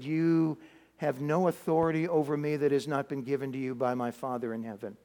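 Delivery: low, quiet, steady reply; calm authority. Acted. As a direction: answer power with quiet certainty. Jesus calmly answers Pilate.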